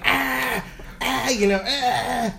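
high pained "ah"; re-enacted cramp groans; groans of agony. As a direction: act out groaning from a bad cramp. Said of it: "Faces of agony".

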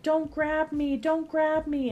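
high mock-screaming child; retold toddler scream. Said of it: "she's just running and screaming".

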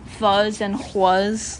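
fuzz and huas said slowly to contrast the sounds; fricative sounds demo. Shown as a demonstration. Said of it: "switch out".

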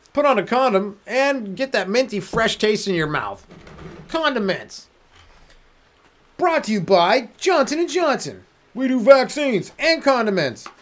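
hammed-up ad announcer selling mint condoms; cheesy commercial voice. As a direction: pitch it like a TV spokesman.

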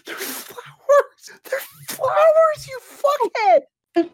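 very high cracking shriek, half crying; high, breaking shout of exasperation; exasperated shriek. Real, not acted. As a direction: screech in mock despair. Exasperated screech at friend.

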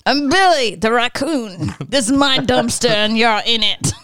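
lightly voiced raccoon, put out; a hint of a scrappy raccoon; territorial raccoon character. Raccoon introduces himself to intruding cats, mildly indignant character voice.

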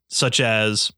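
burp through the words; words pushed out on a burp. Real, not acted. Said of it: "that was a burp".

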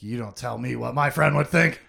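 indignant mock retort, building at the end; rising irritation, acted; acted mad. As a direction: play someone getting mad. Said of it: "he gets all mad".

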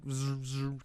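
soft buzzing "zzz, zzz"; imitated buzzing noise. Friend showing how to dislodge it, imitated buzz.

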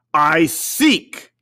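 exclaimed. Acted. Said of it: "exclaimed the spirit".

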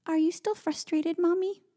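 put-on high, slow, gentle child voice; imitating little girl. Mom retells daughter checking if mommy's still frustrated, high child voice. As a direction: ask it slowly, high and small like a child.

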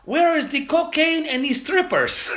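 high, loud and slow, laughing through it; laughing loud announcement. Retold or imitated. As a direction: announce it to the whole bar, cracking up. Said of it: "to kinda tell the room that he was coming in".

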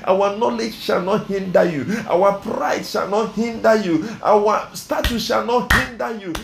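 insistent, rhythmic public prayer; fervent prayer. Real, not acted. Preacher begging the Lord to step in, fervent prayer. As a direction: press each petition home in repeated phrases.

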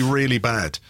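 usual speaking voice

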